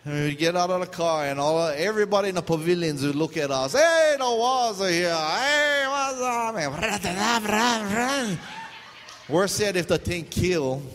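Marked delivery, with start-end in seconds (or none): 3.7-8.4 teasing shout. Retold or imitated. Kids in pavilion taunting.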